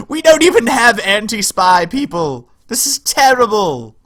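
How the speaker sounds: high, loud hammed-up alarm; mock panic. Streamer lamenting no anti-spy defences, theatrical mock panic. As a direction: wail it like an overdone disaster.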